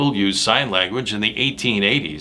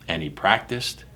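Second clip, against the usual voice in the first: dropping softer on the repeat; second echo, easing off; 4 semitones lower, 6 dB quieter than usual. Acted. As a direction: let it fade a little. Repeated fading refrain.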